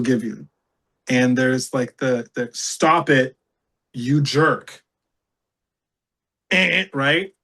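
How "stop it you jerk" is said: firm stop-it with a pause before the insult; a firm, serious refusal; hard no. Acted. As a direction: set a boundary, each phrase on its own. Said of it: "That's a hard no. There's a wall".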